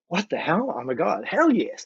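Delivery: rising, giddy mock cheer with a laugh; excited disbelief. Sound man offers free help.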